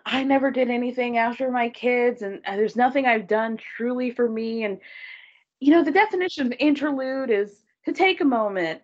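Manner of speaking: lightly mocked heartfelt speechifying; long-winded speech. Wendy giving a whole speech to her guests, long-winded imitation. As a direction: imitate someone droning on about herself. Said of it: "this whole long-winded thing about".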